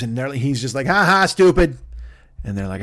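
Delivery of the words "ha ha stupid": high, loud mocking ha-ha; gloating mock laugh and insult; taunting. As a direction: jeer like a childish prankster. Prankster mocks the family.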